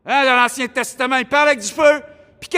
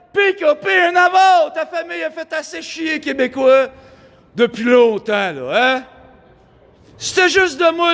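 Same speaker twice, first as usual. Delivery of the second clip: angry rant. Acted. Ranting at PKP, threatening.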